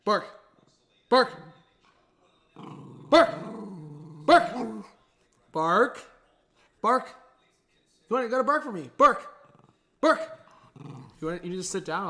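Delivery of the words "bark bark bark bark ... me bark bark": high, loud commands to bark; pleading with the dog to bark on cue; coaxing the dog. Real, not acted. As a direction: egg the puppy on, pitched up.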